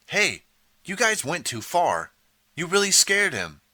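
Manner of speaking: upset reproach; upset scolding. A narrator's reading. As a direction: reproach them, shaken. Sandy scolds the pranksters.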